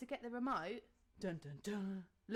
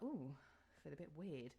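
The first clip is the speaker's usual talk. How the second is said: a bit weird; 6 semitones lower, 9 dB quieter than usual. Retold or imitated. Realising labour has started.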